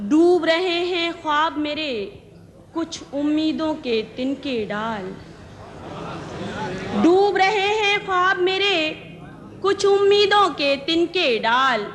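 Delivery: ghazal recitation. Acted. Poet presenting her ghazal to the gathering, measured recitation. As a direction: recite each line deliberately, pausing between phrases.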